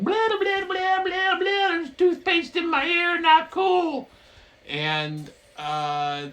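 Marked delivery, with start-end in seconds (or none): 0.0-4.1 very high, squeaky droid complaint; R2-D2 complaining. Retold or imitated. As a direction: whine like a droid with toothpaste in its ear. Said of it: "And R two's like".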